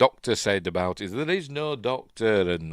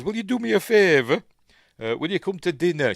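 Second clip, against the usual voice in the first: higher retold invitation; imitated pleading request; 10 semitones higher, 7 dB louder than usual. Retelling him asking her to dinner, pitched-up request. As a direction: pitch it up as an eager ask.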